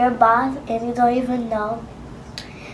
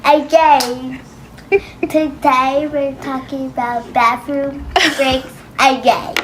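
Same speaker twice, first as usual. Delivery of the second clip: mock British mom. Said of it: "She keeps saying again instead of again".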